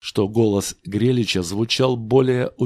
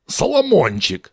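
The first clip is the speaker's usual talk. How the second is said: delighted exclamation; 8 semitones higher, 5 dB louder than usual. A narrator's reading. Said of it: "восторженно воскликнул он".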